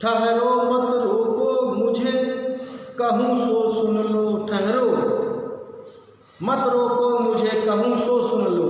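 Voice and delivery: slow, drawn-out chanted verse; verse recitation. Acted. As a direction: recite the poem in measured sing-song, stretching line ends. (धीमे, लयबद्ध स्वर में काव्य-पाठ)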